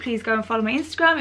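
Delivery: normal talking voice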